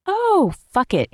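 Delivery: high, slow startled blurt; a jolt of fright pushes the words out high and slow; nervous airplane passenger cursing under turbulence; startled curse. Acted.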